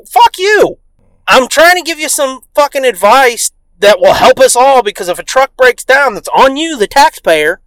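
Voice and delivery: high, loud indignant lecture; mock angry rant. Dad yells advice at neighbor, mock angry. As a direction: imitate a dad shouting his advice.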